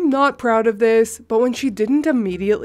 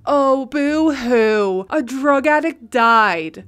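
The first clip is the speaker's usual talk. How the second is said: mocking boo-hoo; 3 dB louder, slower than usual. Friend mocking her grief.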